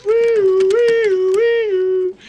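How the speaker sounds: high, loud ambulance siren sound; siren imitation. Teller mimicking the arriving ambulance siren. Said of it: "In comes a meat wagon".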